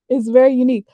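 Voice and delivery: quick words through a real laugh. Real, not acted. Reacting to a Cameroonian clip, laughing at the speaker's accent. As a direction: chuckle while you say it.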